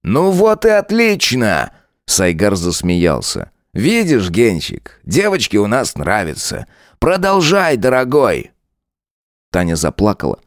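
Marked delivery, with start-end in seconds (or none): 0.0-8.5 a lightly voiced sneering cop, slow and taunting; mocking lieutenant. Lieutenant Saigar mocking Tanya, lightly voiced sneer. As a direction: lean into the lines like a smug bully.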